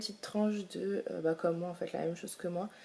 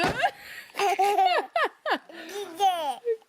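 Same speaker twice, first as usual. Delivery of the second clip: high giggle; 11 semitones higher than usual. Real, not acted. Laughing at baby.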